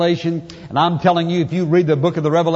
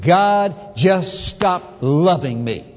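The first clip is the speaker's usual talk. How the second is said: drawn-out, wounded inner voice; slow doubting thought; much slower than usual. Retold or imitated. A believer voicing hurt doubt, slow and wounded. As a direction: let the doubt linger slowly.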